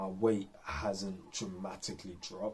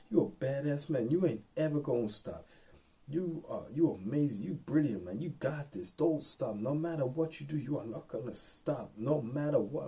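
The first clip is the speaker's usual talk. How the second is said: hype coach voice; 6 semitones higher than usual. Retold or imitated. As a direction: fire him up to keep running. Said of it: "this little dialogue going in my head".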